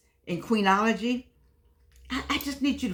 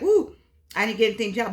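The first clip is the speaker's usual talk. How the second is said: mock disappointment; much faster than usual. Woman without a Valentine's gift at work, mock disappointment. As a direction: play the gift-less coworker, half-teasing.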